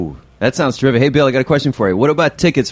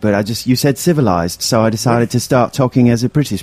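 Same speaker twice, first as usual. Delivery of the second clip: put-on British accent. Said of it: "I'm talking in an accent".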